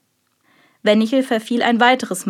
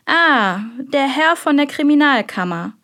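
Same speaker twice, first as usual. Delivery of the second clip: smooth, velvety welcome, pitched higher; higher, suavely effusive greeting; 5 semitones higher than usual. A narrator's reading. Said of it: "sagte er mit samtener Stimme".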